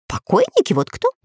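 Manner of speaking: high, cringing little voice; cowering parrot. Acted. Parrot cowering before the lord, a squeaky timid voice. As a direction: shrink into yourself as you say it. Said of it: "вжав голову в туловище".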